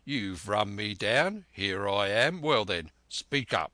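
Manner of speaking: put-on loud blunt old captain; gruff challenge. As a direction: demand it loudly, cornered. Captain confronts Black Dog.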